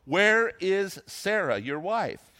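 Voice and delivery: measured out-loud scripture question. Retold or imitated. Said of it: "they said it out loud".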